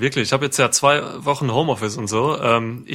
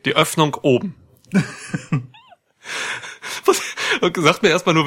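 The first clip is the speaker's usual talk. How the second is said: ordinary delivery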